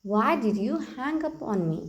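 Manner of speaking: very slow, word by word for learners; slow model sentence. Shown as a demonstration. Teacher repeats the phrase for the class, very slow. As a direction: lay each word out slowly. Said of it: "कहिए".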